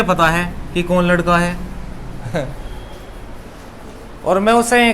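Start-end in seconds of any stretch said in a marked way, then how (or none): 1.6-3.4 low, breathy little laugh; soft chuckle. Real, not acted. Teacher amused by his classroom example, soft chuckle. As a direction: chuckle quietly to yourself.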